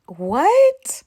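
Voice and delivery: high, loud, stunned what; shocked what. Real, not acted. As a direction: gasp it out in disbelief. Shocked at Morgan's face.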